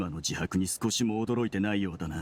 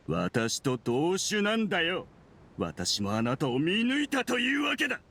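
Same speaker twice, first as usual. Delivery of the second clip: triumphant taunt; 4 semitones higher than usual. Acted. Villain triumphantly accuses the nurse.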